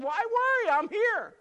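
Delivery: high, loud reassuring call; Jesus calling out from the boat; calm Jesus voice. Retold or imitated. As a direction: play Jesus telling them not to worry. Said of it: "He said".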